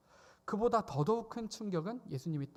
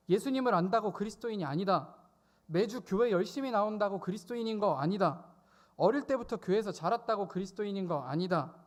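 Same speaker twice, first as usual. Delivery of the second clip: proclaiming; 3 semitones higher, 3 dB louder than usual. Acted. 천사의 말을 선포하듯.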